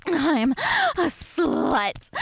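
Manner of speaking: slow drawn-out cry of a line. Acted. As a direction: stretch it out and call it out. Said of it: "I'll say it louder".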